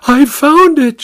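high excited cry; cried out. A narrator's reading. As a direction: burst in crying out the news. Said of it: "she cried".

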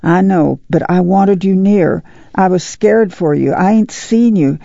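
lightly voiced anxious mother, pitch lifting; a hint of a fretting, loving mother; worried mother. Mother who was scared for her son, lightly voiced worry.

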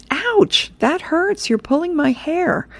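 very high yelping complaint; pained grandma. Acted. Grandma to grandson pulling her hair, high pained protest.

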